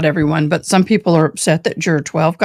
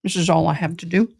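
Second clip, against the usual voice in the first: talking while eating; words round a bite of food; chewing noisily; faster than usual. Real, not acted. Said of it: "I'm sorry I'm eating".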